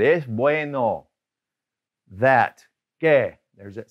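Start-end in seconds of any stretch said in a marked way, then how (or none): 0.0-1.1 "Es bueno" drawn out slowly, clearly; slow teacher model of "Es bueno". Shown as a demonstration. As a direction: spell out "Es bueno" slowly for learners. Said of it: "So we're just gonna say".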